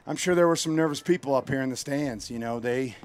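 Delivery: breathless after running; winded, catching breath between words. Real, not acted. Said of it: "I'm out of breath from running".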